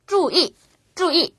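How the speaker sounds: each syllable of 注意 drops from high; slow, high falls on 注 and 意; double falling tone. Shown as a demonstration. Teacher models tones for learners, 注意 both falling. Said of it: "두 번 다 떨어지기 때문에".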